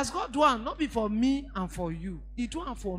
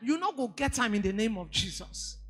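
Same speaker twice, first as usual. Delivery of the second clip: fast, higher, louder retold curse; angry wife; 4 semitones higher, 5 dB louder than usual. Angry wife cursing husband, fast heated imitation. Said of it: "one woman was so angry".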